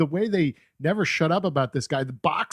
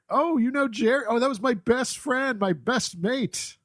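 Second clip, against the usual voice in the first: mock Irish; 8 semitones higher than usual. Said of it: "it's like".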